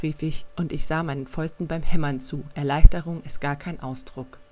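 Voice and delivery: reading a youth novel aloud, lively; audiobook-style storytelling; story narration. A narrator's reading. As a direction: tell the scene like an audiobook reader. Reads a novel excerpt aloud.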